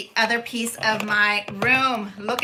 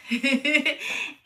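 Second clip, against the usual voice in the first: short, rippling giggle; a quick, amused titter; light chuckle; 2 semitones higher than usual. Real, not acted. Amused after announcing cracker box craft.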